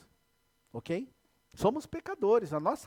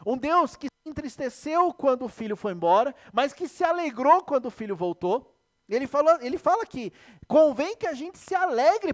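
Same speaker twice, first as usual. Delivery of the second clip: loud, high preaching at full force; fervent preaching; 6 semitones higher, 8 dB louder than usual. Acted. Pastor preaching to the church, loud and fervent. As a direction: proclaim it with rising fervour.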